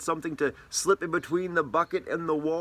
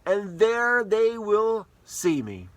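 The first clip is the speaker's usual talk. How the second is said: Jesus proclaiming; 6 semitones higher, 5 dB louder than usual. Acted. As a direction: announce it like the risen Lord giving orders. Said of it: "Jesus said to them".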